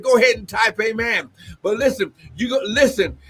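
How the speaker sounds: fervent prophecy with exclamations of glory; prophetic preaching. Acted. Prophet releasing a word to the apostle, fervent preaching. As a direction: preach it as an urgent personal word.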